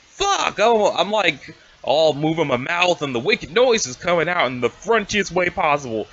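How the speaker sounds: high, heated troll rant; angry troll voice. Acted. Troll rants at his partner.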